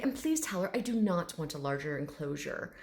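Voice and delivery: lightly voiced, courteous firmness; a touch of formal dignity; proper gentleman. Dragon asking to keep his enclosure, mildly formal. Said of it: "this very proper gentleman".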